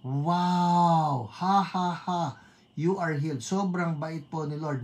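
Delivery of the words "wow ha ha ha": drawn-out wow and laugh; delighted cheer. Real, not acted. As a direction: cheer the good news. Cheers a reported healing. (masayang pagkamangha)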